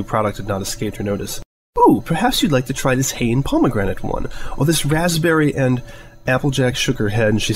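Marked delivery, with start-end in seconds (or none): 1.8-5.8 a touch higher, prim and fussy; light posh mare, lightly voiced; refined lady voice. Rarity fussing over shampoos.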